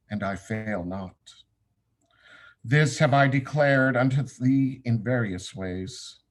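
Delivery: measured, declamatory recitation with deliberate pauses; solemn scripture reading. Acted. Class leader reads the meditation on Samekh to students, solemnly declaimed. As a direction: intone it like holy writ, each phrase firm then falling.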